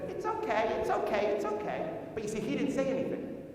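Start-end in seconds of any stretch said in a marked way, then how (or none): 0.1-1.9 light, unbothered retold voice; very calm. Wife answering the salesman's questions, very calm. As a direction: answer mildly, without any fuss. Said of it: "would have very calmly said".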